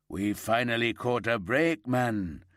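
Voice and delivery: a little winded after dancing, still puffing; out of breath. Acted. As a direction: talk while catching your breath, lightly. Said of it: "slightly out of breath".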